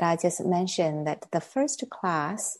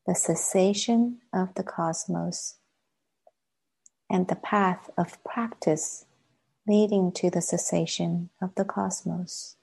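measured meditation guidance with long silences; guided meditation. Acted. Teacher leading a class into sitting practice, guided meditation. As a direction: guide them gently inward, pausing long between phrases.

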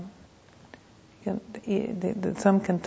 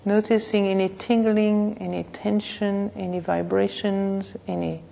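measured meditation voice with long pauses; guided meditation. Real, not acted. Teacher leading a class to notice the body, guided meditation. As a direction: guide them unhurriedly, phrase by phrase.

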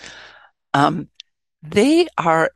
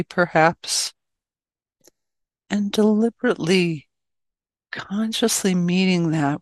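measured meditation guidance with long pauses; guided meditation. Acted. Teacher settling an online group into meditation, guided meditation. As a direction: ease listeners gently into stillness, phrase by phrase.

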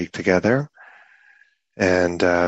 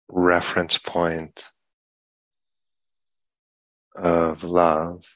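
unhurried meditation guidance with long pauses between phrases; guided meditation. Real, not acted. Teacher guiding a group sitting in meditation, unhurried guided meditation. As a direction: speak in measured phrases, leaving long silences.

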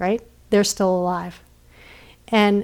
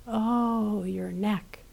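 much softer, sympathetic echo; gentle echo; 8 dB quieter, much slower than usual. Acted. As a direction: soothe her by mirroring her words. Creatures softly echo.

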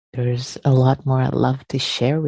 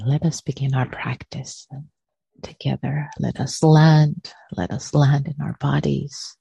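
unhurried guiding voice with long pauses between phrases; guided meditation. Real, not acted. Teacher settles friends into shared practice, guided meditation. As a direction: ease listeners into stillness, phrase by phrase.

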